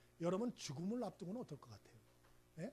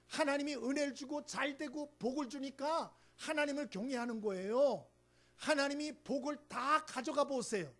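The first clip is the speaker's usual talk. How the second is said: louder, higher, insistent accuser pleading his case; Satan accusing; 5 semitones higher, 5 dB louder than usual. Acted. Satan accusing Job before God, louder, pushy. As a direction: argue like a sly prosecutor before God. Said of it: "사탄이 하나님께 욥을 고소합니다".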